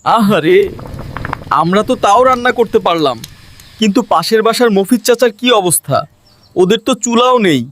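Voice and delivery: mildly pitying musing; a touch of sorrowful concern; regretful. Acted. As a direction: think of the neighbour with sympathy. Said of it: "মনে মনে আফসোস করে".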